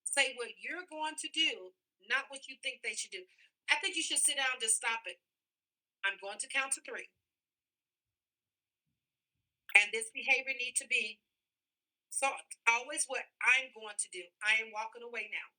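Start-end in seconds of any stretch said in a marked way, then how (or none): 0.0-3.3 slowed repeat of the rule, stressing "do"; slow, repeated for emphasis. Shown as a demonstration. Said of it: "do y'all understanding that". 6.0-15.5 calm firm parent. Shown as a demonstration. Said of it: "enforceable statements".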